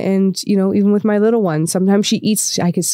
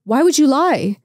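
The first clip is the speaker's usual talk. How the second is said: hurt dad; 8 semitones higher than usual. Retold or imitated. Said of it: "And then he's like".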